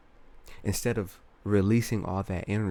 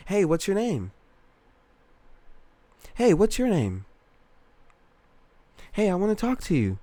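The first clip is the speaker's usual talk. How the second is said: high-pitched, nervous, eager approach; squeaky, unsure pickup line; high timid voice; 12 semitones higher than usual. Retold or imitated. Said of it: "There's a difference between saying".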